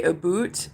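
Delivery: "a boot" with a long oo for about; mock Canadian pronunciation. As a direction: say "a boot", vowel as in food. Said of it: "waiting for them to say".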